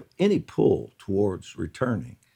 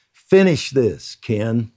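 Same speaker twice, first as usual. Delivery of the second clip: very strongly; 6 dB louder, slower than usual. Retold or imitated. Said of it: "very strongly".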